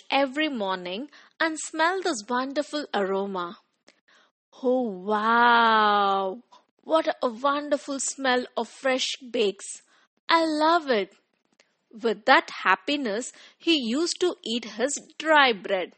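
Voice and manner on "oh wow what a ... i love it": delighted neighbor. Acted. Cheerful neighbor smelling the bakes.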